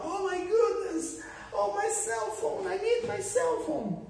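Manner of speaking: mock panic. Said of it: "Por exemplo, perdi meu celular".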